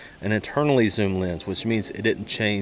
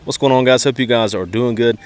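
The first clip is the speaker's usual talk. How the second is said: wind on mic; 3 dB louder than usual. Real, not acted. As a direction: wind noise over the voice. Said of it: "sorry for the wind noise in this video".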